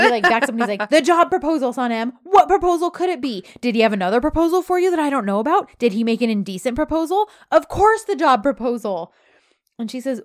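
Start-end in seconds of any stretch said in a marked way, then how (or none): 0.9-9.1 high, loud mock outburst; hammed-up jealous rant, loud and high; flipping out. Boss retold to a co-host, in a hammed-up loud rant. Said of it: "he flips out".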